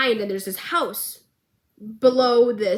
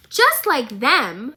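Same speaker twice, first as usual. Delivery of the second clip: slow, louder disbelieving "Just like them?" rising at the end; incredulous repeat; 3 semitones higher, 5 dB louder, much slower than usual. Real, not acted. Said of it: "I've had enough of it".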